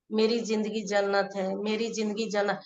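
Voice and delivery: slow, soft repetition; slow affirmation. Shown as a demonstration. Coach shows the slow way that gives the mind time, softly. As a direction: let the words drag softly. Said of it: "यानी कि हम बोलेंगे".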